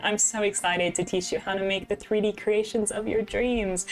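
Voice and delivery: lightly hammed-up cheerful tutorial presenter; tutorial radio voice. Streamer imitates her old art tutorial videos, mock radio voice. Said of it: "a radio voice where I'd be like".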